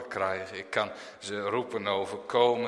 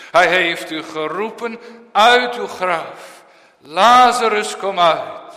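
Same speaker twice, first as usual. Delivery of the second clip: loud, high call at the grave; 6 semitones higher, 11 dB louder than usual. Retold or imitated. Christ calling Lazarus from the grave, loud summons. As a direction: summon the dead man out.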